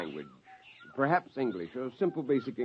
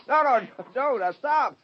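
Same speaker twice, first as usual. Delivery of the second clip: laughing protest; 12 semitones higher, 5 dB louder than usual. Acted. Creatures climbing on his back.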